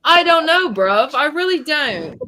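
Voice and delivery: mock British street accent, giggly; put-on British, close to laughing. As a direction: play a helpless British bruv. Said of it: "have a conversation in British accent".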